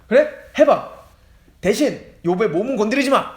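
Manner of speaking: mildly angry, forceful challenge. Acted. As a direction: play God grudgingly issuing a dare. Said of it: "그때 하나님은 화가 나셨어요". (살짝 화난 듯 힘주어)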